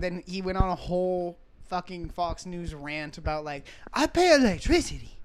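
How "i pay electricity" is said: a bad attempt at an East Asian accent; doing a shaky East Asian accent. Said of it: "I can't do a fucking Asian accent".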